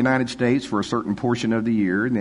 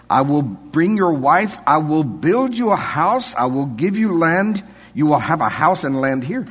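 put-on higher, louder, slow Afrikaans accent; imitating Afrikaans accent; 6 semitones higher, 5 dB louder, slower than usual. Afrikaans host promising wife, house and land, Afrikaans accent. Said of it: "I'm gonna use his accent now".

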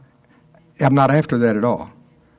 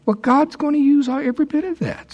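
pitched high, building excitement; high and fervent preaching; excited. Real, not acted. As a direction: lift the voice way up to drive it home.

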